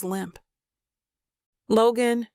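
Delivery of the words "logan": rising panic. Acted. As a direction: call his name as panic rises. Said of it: "my voice rises".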